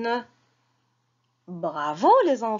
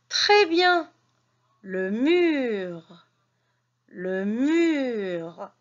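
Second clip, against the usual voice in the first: reading lesson voice. Acted. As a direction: sound out each syllable for little ones. Teacher reading lesson to children.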